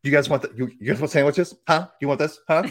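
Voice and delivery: lightly imitated brusque aunt; a hint of a pushy, loud aunt; loud, abrupt aunt. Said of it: "This is how she talked".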